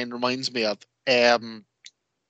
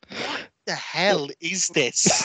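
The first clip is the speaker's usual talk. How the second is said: put-on incredulous girlfriend; 3 semitones higher, much slower than usual. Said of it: "Hannah'd be looking at me going".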